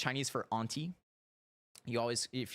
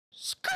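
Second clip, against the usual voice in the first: imitated tire skid. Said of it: "you hear a".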